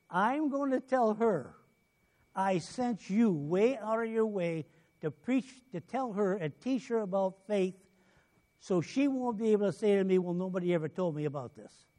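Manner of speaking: lightly acted scolding from God; voice of the Lord. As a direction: deliver a stern reproof, stretching the words. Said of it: "and it scares you".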